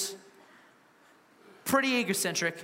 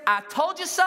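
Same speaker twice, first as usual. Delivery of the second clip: high mock gloat; 8 semitones higher, 4 dB louder than usual. Imagined Jesus to those who doubted him, gloating. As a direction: rub it in, pitched up and playful.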